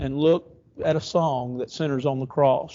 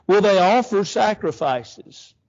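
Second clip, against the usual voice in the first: louder, slower sarcastic jab; sarcasm; 5 semitones higher, 3 dB louder, slower than usual. Acted. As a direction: throw the question out sneering. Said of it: "this is sarcasm at its greatest".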